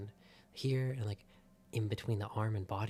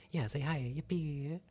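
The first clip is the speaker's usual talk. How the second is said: high squeaky yippee; excited cheer; 5 semitones higher than usual. Real, not acted. Cheering for artist in chat.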